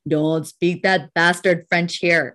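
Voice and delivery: slow, measured mock reprimand; lightly voiced disdainful policeman; police officer's rebuke. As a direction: imitate an officer, each word drawn out. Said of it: "he was like".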